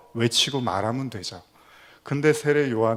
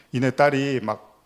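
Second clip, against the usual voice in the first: normal talking voice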